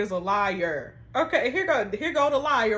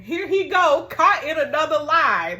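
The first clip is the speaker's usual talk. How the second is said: loud, exasperated callout; calling out the liar, louder; 3 semitones higher, 6 dB louder than usual. Real, not acted. Viewer reaction to boyfriend's lie, loud exasperated callout.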